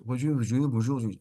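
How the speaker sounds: bonjour said with the mouth almost closed; French mouth almost closed. Shown as a demonstration. Teacher demonstrates French speech with a near-closed mouth. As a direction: keep the mouth nearly shut on bonjour. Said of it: "we speak like this here".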